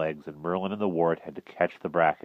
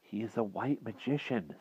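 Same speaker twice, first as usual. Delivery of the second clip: reassuring; 5 semitones higher, 8 dB quieter than usual. A narrator's reading. Boy reassures the frightened king.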